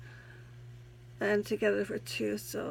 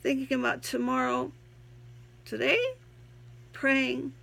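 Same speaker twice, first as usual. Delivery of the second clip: poem reading; 2 semitones higher than usual. Acted. Reads her own poem aloud.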